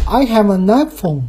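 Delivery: careful learner's I have an iPhone; practised English sentence. Shown as a demonstration. Showing today's practice, careful English iPhone sentence. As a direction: recite I have an iPhone as a pronunciation drill. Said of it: "我今儿就练，我说".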